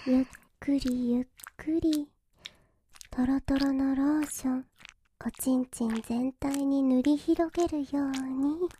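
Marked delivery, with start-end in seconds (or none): 0.0-4.6 whispering. Acted. Slow whispered guidance.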